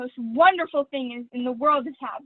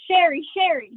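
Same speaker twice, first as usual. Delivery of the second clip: excited call; 4 semitones higher, 6 dB louder than usual. Acted. Bursting in with news.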